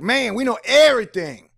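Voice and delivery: high, loud smug scientists; arrogant know-it-all. Retold or imitated. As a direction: brag like you know it all. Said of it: "and they were like".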